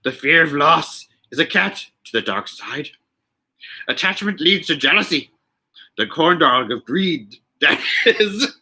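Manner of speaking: a hint of Yoda; lightly voiced Yoda, struggling with the words. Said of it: "Trying to say corn dog in a Yoda".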